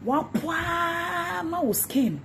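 mock squeal. Real, not acted. Mocking insult rant.

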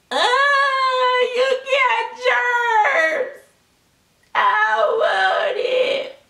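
put-on wailing high toddler scream, very slow; mock a child bawling for her food; crying tantrum shout. Toddler tantrum over germs.

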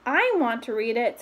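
plain reading voice

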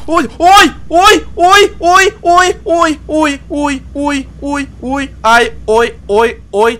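shrill repeated hellos; high squeaky calls. Real, not acted.

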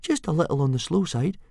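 high, placating aside; helpful high little voice; reassuring. A narrator's reading. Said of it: "murmured Fishlegs reassuringly".

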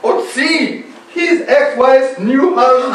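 high, sobbing confession; tearful wail. Acted. Betrayed man naming the other man, wailing tearfully. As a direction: wail out the answer through tears. Weeping man reveals the rival.

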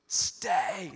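breathy hushed command to hold; urgent whisper. Retold or imitated. Leader whispering to his nervous troops, hushed. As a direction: whisper it like holding troops steady. Imitating Mel Gibson calling people.

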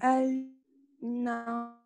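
faint, distant voice on the call; phone held away. Real, not acted. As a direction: sound far from the microphone. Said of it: "صوتك مش واضح بنين".

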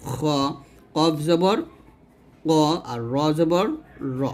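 দ, ত, জ, গ, খ, ক, র each ending in rounded "o", never "aa"; pause, then give each syllable full and rounded, like দ as "do"; heavy rounded vowels. Shown as a demonstration. Teacher modelling the eight exceptions, syllables said rounded. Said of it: "এরকমভাবে আপনাকে উচ্চারণ করতে হবে".

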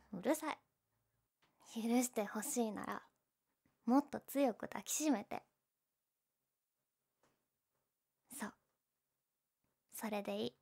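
soft and tender. Acted. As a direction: murmur it gently in his arms. Tender soft ending in his arms.

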